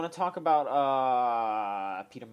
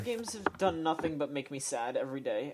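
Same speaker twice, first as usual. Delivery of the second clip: mock-upset gamer, lightly put on; whiny internet gamer; 2 semitones higher than usual. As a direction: act out a disgruntled online fan, slightly hammed-up. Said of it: "great impression of the entire internet".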